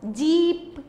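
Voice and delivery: जीप with the ई held long; long vowel. Shown as a demonstration. Teacher showing children the long sound, जीप drawn out. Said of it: "सबसे long sound किसका आ रहा है".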